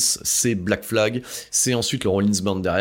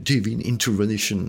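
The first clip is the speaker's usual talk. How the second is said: "Divine Intervention" said in a hammed-up English accent, "intervention" as inter-VEN-shun; self-mocking English accent. Shown as a demonstration. Podcaster jokes about his superb English accent, mock English accent. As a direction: show off a proud but clumsy English accent on "Divine Intervention". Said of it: "vous avez vu mon superbe accent anglais".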